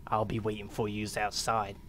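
put-on slight British accent. Gamer slipping into a light British accent. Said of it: "turned a little bit British at the end".

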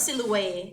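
"Silhouette" clearly presented for learners; pronunciation demo. Shown as a demonstration. Teacher showing students how to read the word, modelling "Silhouette". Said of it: "อ่านที่ถูกก่อนนะคะ อ่านว่า".

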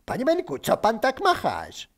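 high-pitched call to someone above. Acted. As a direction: call up, baffled. Calling to Benek up a tree. (wysokie wołanie z dołu)

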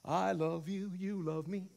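a light sing-song Barney voice; lightly voiced kids' dinosaur; imitating Barney. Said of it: "Barney Christianity".

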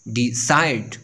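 डिसाइड as de-CIDE; last-syllable stress. Shown as a demonstration. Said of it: "जब हम stress last syllables पर देते हैं". (डिसाइड के आखिरी सिलेबल पर स्ट्रेस)

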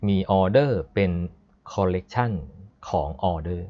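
measured reading in separate chunks; reading code aloud. Shown as a demonstration. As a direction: read it out as a sentence, pausing between chunks. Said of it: "นี่คือวิธีการอ่าน".

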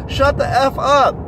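put-on high, loud, slow child's yell; kid screaming. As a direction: scream it like a raging toddler. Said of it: "He starts screaming".

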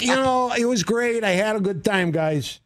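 a hint of a breezy movie star brushing it off; imitating Mantegna. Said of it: "He was like".

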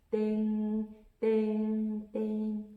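imitated bell, long held 'ding' on one pitch; 종소리 흉내. A narrator's reading. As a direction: ring out like a bell, three times. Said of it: "종소리가 울렸어요". (길게 울리는 종소리 흉내)

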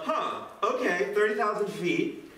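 slow, considering "Huh, okay" from Sam, weighing it up; thoughtful Sam. Pretend. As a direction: mull it over slowly before agreeing. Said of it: "and he goes".

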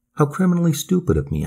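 high, quick exclamation; crying out. A narrator's reading. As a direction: exclaim it in self-reproach. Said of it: "I cried".

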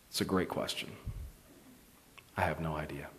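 almost swallow the words in awe; hushed whisper. Real, not acted. Preacher whispering to the church after the boy's question.

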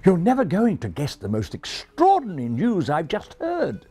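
high refined English announcement; calling excitedly. Acted. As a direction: share the news breathlessly in refined English. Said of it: "called to his friends".

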